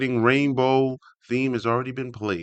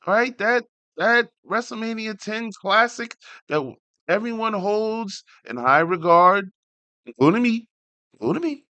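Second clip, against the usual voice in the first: much higher, louder indignant pitch; excited defense; 13 semitones higher, 4 dB louder than usual. Real, not acted. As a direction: argue for your hero, worked up. Defends his favourite wrestler.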